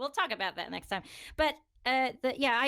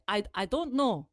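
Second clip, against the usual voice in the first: lightly imitated Japanese-accented English; hesitant second try at a Japanese accent. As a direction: parrot a boyfriend's Japanese accent. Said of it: "let me remember his accent".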